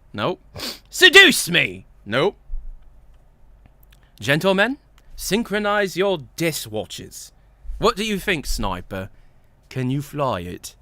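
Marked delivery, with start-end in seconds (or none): 0.9-1.8 loud French accent try-out; Spy. Shown as a demonstration. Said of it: "what does Spy sound like?". 4.2-10.8 measured attempt at a French accent; Spy. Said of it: "what does Spy sound like?".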